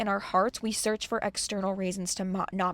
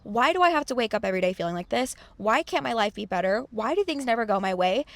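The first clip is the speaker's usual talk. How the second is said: whiny victim complaining; 3 semitones higher than usual. Retold or imitated. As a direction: complain like life is unfair to you. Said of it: "And that's the victim mentality".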